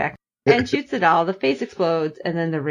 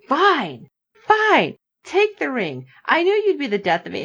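mock exasperated Doc; 7 semitones higher than usual. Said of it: "then he's just like".

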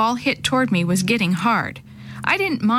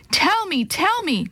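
urgent shout; 8 semitones higher than usual. Acted. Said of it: "my father shouted".

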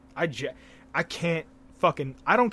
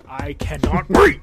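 I cannot wait, drawn out slow and much louder; overexcited; 11 dB louder, slower than usual. Shown as a demonstration. Telling his co-host about Japan, slow, loud and gleeful. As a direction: stretch it out and belt it with glee. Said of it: "I'm super excited".

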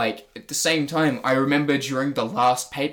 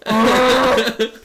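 disgusted ugh; 10 semitones higher, 8 dB louder than usual. Retold or imitated. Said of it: "Renee Young's just there like".

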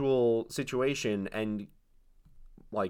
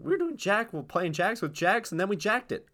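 grandma voice; 9 semitones higher than usual. Pretend. Continues grandma's story.

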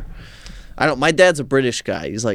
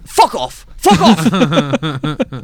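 loud, high British outburst; imitated angry dad; 4 semitones higher, 5 dB louder, much slower than usual. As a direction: imitate dad angrily telling them off. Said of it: "Only when he's angry at somebody else".

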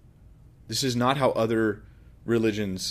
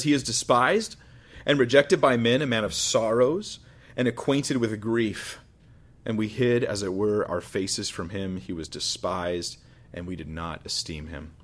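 scripture reading. Acted. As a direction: read the prophecy gravely. Reads scripture aloud.

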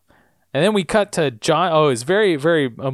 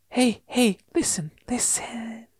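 higher, fading to a whisper; dying whisper; 8 semitones higher, 5 dB quieter than usual. Retold or imitated. Charlotte dying, calling Daniel close in a whisper. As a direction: breathe it out as if dying. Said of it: "And then Charlotte says".

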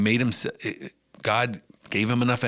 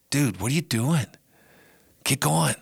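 casual God; 4 semitones higher than usual. Acted. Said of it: "he says".

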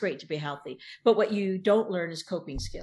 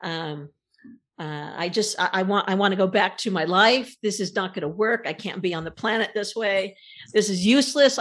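frustrated complaining; 2 semitones higher than usual. Retold or imitated. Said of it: "all I kept saying is".

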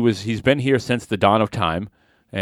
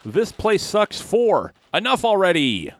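movie trailer voice; 10 semitones higher, slower than usual. Acted. Announcing fake title.

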